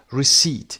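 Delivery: "Receipt" with the P left silent. Shown as a demonstration. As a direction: say "Receipt" without any P sound. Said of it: "پی تلفظ نمیشه". (تلفظ Receipt بدون صدای پ)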